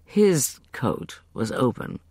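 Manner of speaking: plain reading voice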